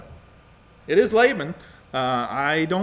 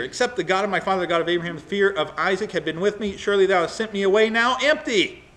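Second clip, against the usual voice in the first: indignant reading, building louder and higher to the end; losing temper; 4 semitones higher, 3 dB louder, faster than usual. Acted. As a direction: let Jacob's grievance swell to an accusation. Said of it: "loses his temper".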